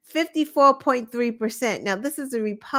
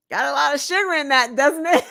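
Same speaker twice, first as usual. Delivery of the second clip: quick, prying grown-up; a hint of a preachy politician scolding; mock DeSantis lecture; 4 semitones higher, faster than usual. DeSantis nags the kid about sugar, lightly mocking and quick. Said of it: "And Ron DeSantis goes".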